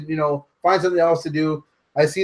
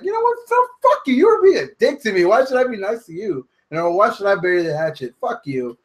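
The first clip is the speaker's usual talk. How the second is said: mock Sami Zayn rant; 3 semitones higher than usual. Recounting Sami Zayn's reaction to a podcast, squeaky mock outrage. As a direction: squeal it like a wounded friend. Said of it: "his reaction was like".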